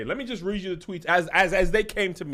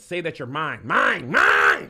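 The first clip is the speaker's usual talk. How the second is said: possessive voice getting louder, Mine. Mine; building mock possessive; 2 semitones lower, 4 dB louder, slower than usual. Reading the DM, mine said louder and louder. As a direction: repeat Mine louder each time. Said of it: "He says".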